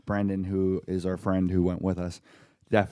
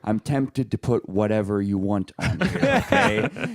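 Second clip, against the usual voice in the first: imitated annoyance. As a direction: play the irritated celebrity giving in. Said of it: "he looked really annoyed".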